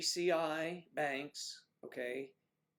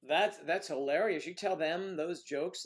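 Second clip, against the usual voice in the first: laughing; 4 semitones higher, 8 dB louder than usual. Real, not acted. Laughing at the jokes.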